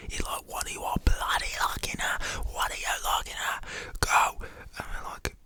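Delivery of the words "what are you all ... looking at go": explosive stage-whispered yell; whispered shout. Retold or imitated. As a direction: mimic a furious dad, whispering hard. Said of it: "the dad shouts over to us".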